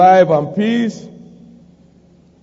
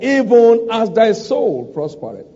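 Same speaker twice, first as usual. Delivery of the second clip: EVEN hit hard and higher; stress on EVEN; 5 semitones higher than usual. Shown as a demonstration. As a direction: underline the word "even" with your voice. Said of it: "Underline the word even".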